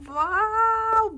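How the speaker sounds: high, loud wow; excited wow. Real, not acted. Kid thrilled at a lucky pull, high and loud. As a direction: burst out with delight. Blocks come out well.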